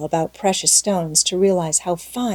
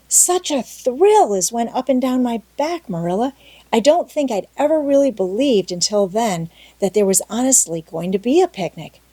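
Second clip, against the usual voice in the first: put-on a touch higher, thrilled young girl; lightly voiced excited girl; 3 semitones higher than usual. Anne telling Marilla about the picnic announcement, thrilled. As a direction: share the shiver of excitement. Anne's excited confession read in character.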